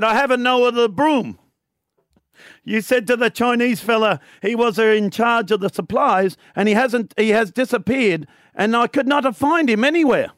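a hint of an Italian labourer; Italian accent. Italian labourer explaining to the foreman, light Italian accent. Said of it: "I can't wait for the accents".

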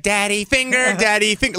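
put-on creepy kid. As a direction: imitate a kid's creepy sing-song. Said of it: "your kid comes at you like".

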